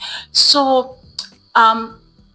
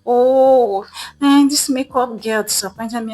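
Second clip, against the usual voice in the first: mild imitated whine of complaint, pitched up; complaining; 5 semitones higher than usual. Matured lady at a wedding grumbles about makeup girl, mildly complaining. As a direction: voice a let-down woman griping. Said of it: "She started complaining".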